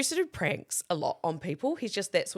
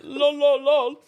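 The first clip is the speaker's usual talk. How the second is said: louder, higher lol through laughter; laughing lol; 8 semitones higher, 8 dB louder, slower than usual. Retold or imitated. Laughing at her own eagerness, giggly lol. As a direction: giggle the lols out.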